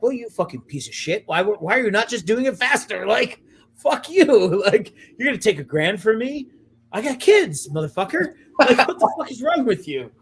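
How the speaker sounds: high, loud mock tirade at a contractor; a hammed-up angry outburst at a greedy contractor; mock furious rant. Ranting at contractor, retold.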